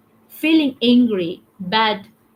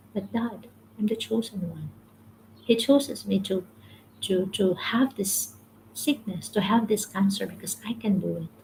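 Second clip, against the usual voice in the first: put-on a much softer, gentle boy's reply; soft little boy voice; 5 dB quieter than usual. A little boy with cancer comforting his crying father, soft and gentle. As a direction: hush it down like a sick child comforting his dad.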